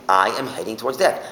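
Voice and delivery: "I am" stated firmly as a declaration; emphatic pronouncement. Acted. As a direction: pronounce it with weight on I. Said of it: "he's pronouncing".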